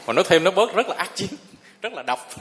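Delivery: quick words broken by a chuckle; laughing while speaking. Real, not acted. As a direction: let a laugh slip through the line. Amused telling of mother's gossip.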